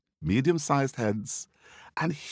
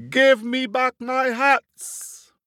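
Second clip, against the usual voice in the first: loud, slow, high furious yell; angry shout; 6 dB louder, slower than usual. Acted. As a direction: bellow it up at the monkeys in a rage. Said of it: "and he shouted at them".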